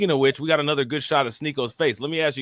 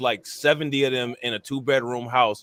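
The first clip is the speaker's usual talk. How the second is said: ordinary talk, nothing marked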